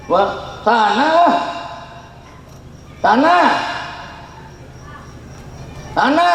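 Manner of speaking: mock dismissive shooing; shooing away. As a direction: send the beggar off. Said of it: "haji shooing beggar".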